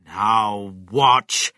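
loud announcing call; crying out. A narrator's reading. Mister Cranky shows off the new chicken, crying out. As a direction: call for attention with force. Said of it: "Mister Cranky cried".

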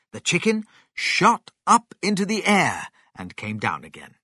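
plain reading voice

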